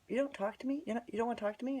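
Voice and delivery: high, imitated neighbor asking; mock plaintive questioning. Neighbor's hurt question, retold.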